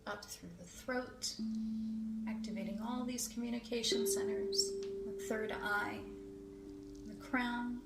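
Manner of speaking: unhurried guidance in short, spaced phrases; guided meditation. Acted. Healer drawing white light up through the chakras, guided meditation. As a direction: let each phrase drift upward with pauses between. Guides group energy visualisation.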